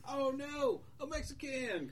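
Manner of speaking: high-pitched cartoon alarm; hammed-up frightened townsman; mock panic. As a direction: cry out in pretend terror. Townsman sees monster as worst fear.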